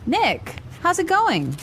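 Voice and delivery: quick, natural conversational pace; natural speed. Shown as a demonstration. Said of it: "this time at natural speed".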